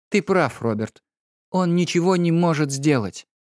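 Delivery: a hint of an irritated wife; Lady Laura. A narrator's reading. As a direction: brush it off as the weary wife.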